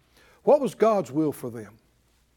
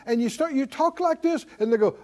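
ordinary talk, nothing marked

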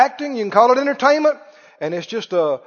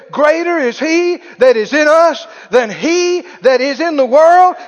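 loud, higher, shouted proclamation; preaching at full force; 4 semitones higher, 6 dB louder than usual. Real, not acted. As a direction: preach it to lift the church. Preaching climax with music.

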